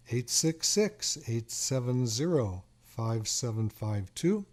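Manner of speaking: reads the number out slowly, digit by digit; slow, clear phone-number read; slow dictation. Shown as a demonstration. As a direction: spell out the number slowly for callers to write down. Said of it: "The phone number to call me right now".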